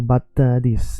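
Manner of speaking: mock Italian word endings; Italian accent. Shown as a demonstration. Teacher showing typical word endings, Italian accent. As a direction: demonstrate an Italian accent with an extra vowel after each word. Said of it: "you notice that you finish the sentences".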